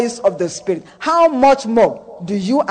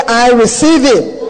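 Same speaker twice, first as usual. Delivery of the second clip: call and response; 3 dB louder than usual. Shown as a demonstration. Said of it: "Say with me".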